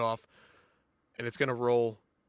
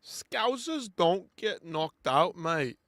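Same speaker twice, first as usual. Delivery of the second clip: slow, half-hearted Liverpool Scouse impression; a lightly put-on Scouse accent, drawn out slowly; Scouse accent, done badly and slowly; 2 semitones higher, much slower than usual. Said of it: "I can't do a good accent".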